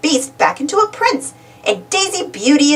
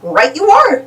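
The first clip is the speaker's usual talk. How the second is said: lightly voiced kindly godmother; a touch of cheery old godmother; fairy godmother; 4 dB louder than usual. Fairy godmother greeting Minnie-rella, kindly voice. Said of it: "says the fairy godmother".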